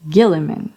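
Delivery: "Gilliman" starting with the g of gift; "Gilliman" as GHIL-i-man; hard G. Shown as a demonstration. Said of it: "with a hard G".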